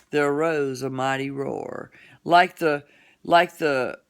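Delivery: theatrical ballad telling with swelling and falling lines; dramatic poem recitation. Acted. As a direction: recite it grandly, lingering on key phrases. Recites Casey at the Bat from memory.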